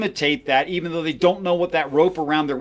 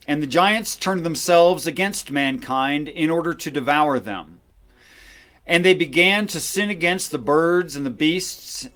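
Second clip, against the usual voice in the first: scripture reading. Acted. Reads Book of Enoch aloud.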